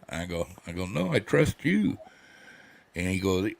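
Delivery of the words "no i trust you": high, slow retold assurance; emphatic reassurance. Patient assures his favorite doctor, high and drawn out. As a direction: draw it out high to reassure him.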